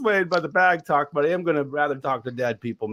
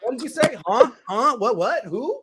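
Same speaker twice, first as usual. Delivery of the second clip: shouting; 5 semitones higher, 3 dB louder than usual. Pretend. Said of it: "can you imagine just the rest of your life".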